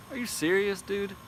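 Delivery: can't believe what he's hearing; high-pitched are you serious; incredulous. Real, not acted. Incredulous at commenters' claim.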